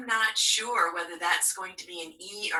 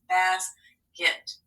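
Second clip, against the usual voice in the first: Basket, pitched well up for the class; bright teacher model; 11 semitones higher than usual. Shown as a demonstration. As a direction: announce Basket high and clear. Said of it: "Let's separate the syllables".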